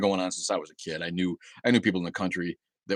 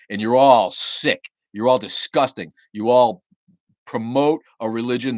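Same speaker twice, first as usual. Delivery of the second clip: 1 angry condemnation; 6 dB louder, slower than usual. Real, not acted. Condemning Christians on livestream.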